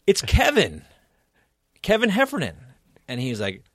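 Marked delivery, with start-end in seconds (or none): 0.1-2.6 high-pitched, eager reminder of your name; retold awkward reintroduction, pitched up; hopeful self-introduction. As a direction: pipe up high, prompting them to remember you. Retold prompting of someone who forgot him.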